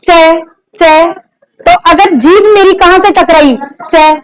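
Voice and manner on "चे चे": "चे" said slowly and clearly, tongue against the palate; demo syllable. Shown as a demonstration. Teacher sounds out "चे" to the class, clear demo. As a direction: sound out "चे" twice so students feel the palate. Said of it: "अब जैसे मैं बोलूं".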